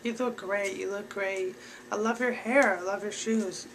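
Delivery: bright, gushing praise; mock bubbly flattery; cheery compliments. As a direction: sweep in all sunny and positive. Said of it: "Come in there and be like".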